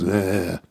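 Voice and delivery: a low, grumbling "Ugh" of mock disgust; imitating a friend's dismissive "Ugh"; imitated groan. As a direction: grunt it like a friend unimpressed by the joke. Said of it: "like that".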